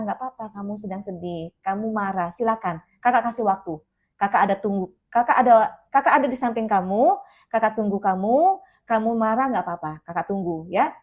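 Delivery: calm and tender, like sitting beside them; soothing. Shown as a demonstration. Soothing angry child, demo.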